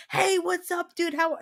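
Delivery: a hint of a chummy bro; lightly voiced hearty dude. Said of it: "He's like".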